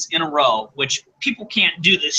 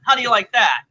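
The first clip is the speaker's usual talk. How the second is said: higher, fast, rising impression; Razor Fist impression; 5 semitones higher, much faster than usual. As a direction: fire off the threats in a caricature voice. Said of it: "that was uncanny how exactly that sounds".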